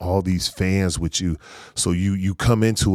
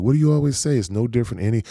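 higher-pitched imitation of wife's reminder; insistent wife; 5 semitones higher, faster than usual. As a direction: push back like a wife talking him down. Wife reminding him, retold.

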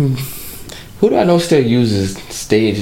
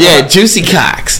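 laughing; 6 semitones higher, slower than usual. Pretend. Mocking friend's stage name.

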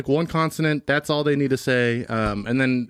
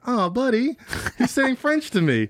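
tickled, finding it cute; 10 semitones higher, slower than usual. Acted. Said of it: "That's cute".

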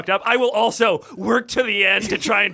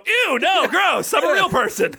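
snobby disgust; 6 semitones higher, slower than usual. Retold or imitated. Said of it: "you didn't wanna go".

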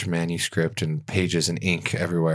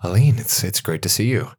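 rising higher on each name, amazed; surprised recognition; 4 semitones higher than usual. Acted. Elf writer opening the door to an old friend, rising amazement. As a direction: pitch climbing on the name as it dawns on her. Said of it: "She's like".

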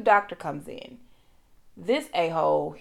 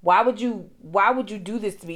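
mild retold rage; 2 semitones higher, 4 dB louder than usual. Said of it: "then the rage comes in".

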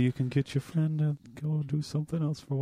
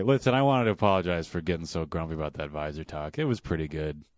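quiet, lower, sheepish voice; low, sheepish apology; 9 semitones lower, 4 dB quieter than usual. Acted. Grumpy character apologizes.

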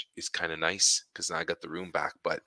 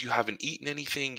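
lightly voiced wife, higher pitch; fussing wife; 5 semitones higher than usual. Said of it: "She goes".

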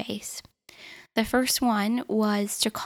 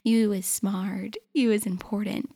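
woman from The Help. Retold or imitated. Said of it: "I feel like I'm the woman from The Help".

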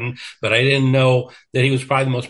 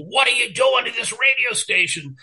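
retold boss screaming; 11 semitones higher than usual. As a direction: scream it down the phone like a furious boss. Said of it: "And he goes".

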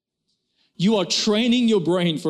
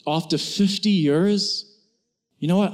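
loving husband; 4 semitones lower, slower than usual. Retold or imitated. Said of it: "looks at her lovingly and says".

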